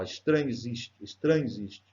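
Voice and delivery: "estranho existe" run together, final o melting into e; elided vowels. Shown as a demonstration. Teacher showing vowels merging into one syllable, words linked. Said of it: "ficou uma sílaba só".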